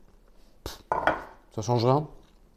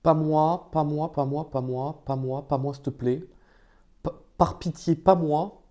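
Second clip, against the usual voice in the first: mock pleading; 3 semitones higher, slower than usual. Pleading not to be picked.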